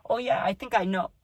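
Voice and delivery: high, breath-catching words; losing breath. Shown as a demonstration. Talking as he sees the cousin, losing his breath. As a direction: lose your breath mid-sentence, voice jumping up high. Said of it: "almost lost my breath".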